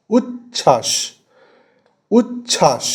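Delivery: "উচ্ছ্বাস" broken as uch, chhash; stopping after each syllable. Shown as a demonstration. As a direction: stop short midway through "উচ্ছ্বাস". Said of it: "stop হয়ে যাচ্ছে". ("উচ্ছ্বাস" মাঝখানে থেমে, দুই দলে)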